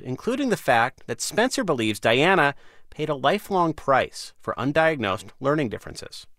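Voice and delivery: scripted radio narration, pitch lifting on new phrases; polished, emphatic presenter delivery; news-magazine bridge read. Acted. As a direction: read it like a public radio host. Host reads scripted bridge.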